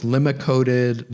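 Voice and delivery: LIMA-COATED with short i, LIM-uh; variant pronunciation. Shown as a demonstration. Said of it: "they can be pronounced lima-coated".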